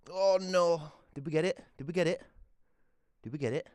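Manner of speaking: high, loud worried check; anxious high exclaim. Real, not acted. Owner checking if cat took the dose, high anxious voice. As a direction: fret loudly in a high voice.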